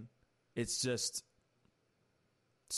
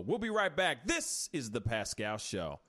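show host sign-off; 3 dB louder than usual. Acted. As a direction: belt it like a show announcer. Host signs off to break.

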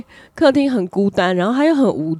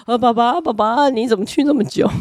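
mock plaintive cry to a rescuer; imitated desperate relief; 3 semitones higher than usual. Child greets returning father, imitated desperate relief. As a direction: greet him as if reinforcements finally arrived. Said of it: "好像得到救兵一样说".

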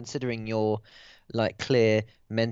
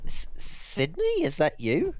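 surprised; 6 semitones higher, slower than usual. Acted. Player NPC spots disguised reporter.

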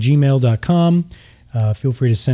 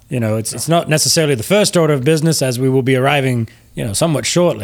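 quick, lightly voiced ship's captain; Captain Oso; faster than usual. Captain puts off a passenger's casino question, courteous and quick. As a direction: politely put off the passenger, briskly.

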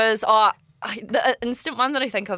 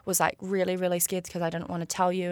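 much softer, imitating a sheepish admission; nervous confession; 7 dB quieter than usual. Boyfriend confessing afterwards to his girlfriend, nervous and hushed. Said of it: "I was so nervous".

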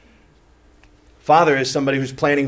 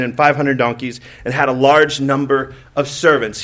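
scripture reading; 3 dB louder than usual. Acted. Reads scripture aloud.

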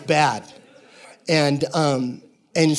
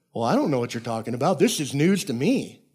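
mock know-nothing voice; quick protest, then stretch out the last phrase; feigned innocence. Pastor imitating the king pleading ignorance, mock innocent.

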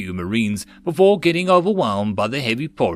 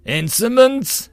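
slow, high outraged shriek; outraged cry; 12 semitones higher, 5 dB louder, slower than usual. Acted. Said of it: "a eunuch cried out loudly".

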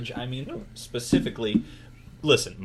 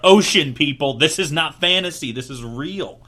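louder, higher call to the audience; rally the viewers with emphasis; emphatic; 4 semitones higher, 9 dB louder than usual. Real, not acted.

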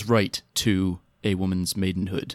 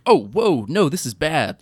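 higher-pitched mock dismay; acted alarm; 5 semitones higher than usual. Host retelling a character's first reaction to the wedding, acted alarm. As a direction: voice a dawning horror, retold.

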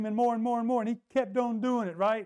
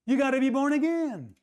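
louder, higher proclamation; preaching emphasis; 7 semitones higher, 4 dB louder than usual. Real, not acted. Preacher to congregation, louder and higher. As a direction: drive the point home.

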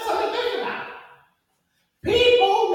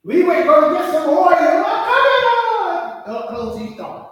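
loud, urgent plea to open up; calling out; 2 semitones higher, 8 dB louder, slower than usual. Acted. Foolish virgin begging at the closed door, loud and urgent. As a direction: cry out for the door before it shuts.

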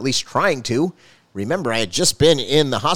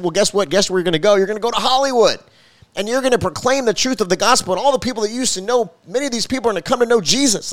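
lightly voiced God, higher and louder, quickening; a hint of a booming divine answer; God answering a reluctant pastor, mildly commanding; 9 semitones higher, 3 dB louder than usual. Voicing God's reply.

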